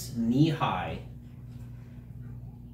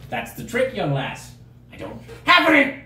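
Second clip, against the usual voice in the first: mock sinister reveal; 9 semitones higher, 4 dB louder than usual. NPC reveals creepy secret.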